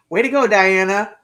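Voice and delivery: loud cheer with a laugh; tearful cheer. Real, not acted. Praising viewer Diana again, tearful cheer. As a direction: cheer her on, choked up.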